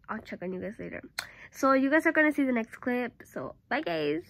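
speaking through fingers; muffled behind hand. Real, not acted. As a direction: hand cupped over mouth. Seen 1: Hand covers mouth throughout the labelled speech.

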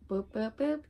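three little "boop" noises; playful boops. Real, not acted. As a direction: boop along while pointing out each one. Voices dabbing at three shades.

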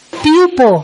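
"Pupil" said alone, first syllable stressed, falling; modelled pupil. Shown as a demonstration. Teacher repeats "Pupil" so students can copy it. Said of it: "Mà phải đọc là pupil".

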